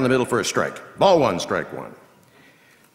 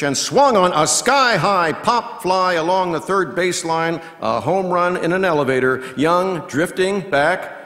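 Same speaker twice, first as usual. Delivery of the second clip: loud, high play-by-play as the ball soars; rising excitement on a pop fly; 7 semitones higher, 6 dB louder than usual. Acted. Announcer calling a sky-high pop fly, loud and high.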